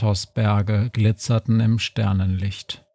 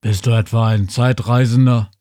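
louder, strange alien voice; Kodos; 4 dB louder, faster than usual. A narrator's reading. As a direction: ask it like a wary alien. Kodos keeps asking. (misstrauischer Alien)

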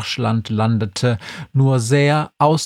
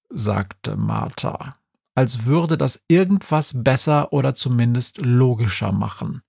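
plain reading voice

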